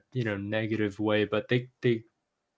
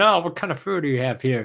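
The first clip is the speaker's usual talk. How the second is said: put-on heavy Chinese accent on the question; 3 semitones higher, faster than usual. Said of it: "with their heavy Chinese accent".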